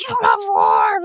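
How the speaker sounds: dropped low into a mock accusing voice; mock accuser. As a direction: growl it like a caricatured critic.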